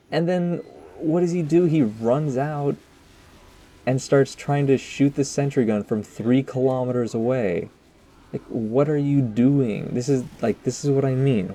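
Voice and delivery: real frustrated rant at a heavy; exasperated outburst. Real, not acted. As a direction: vent at the teammate who wasted the Uber. Exasperated at a teammate's play.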